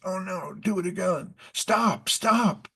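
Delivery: high, panicky cries of "stop"; Mickey Mouse begging the flooding brooms to stop, high and panicky; mock panic. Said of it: "And he goes".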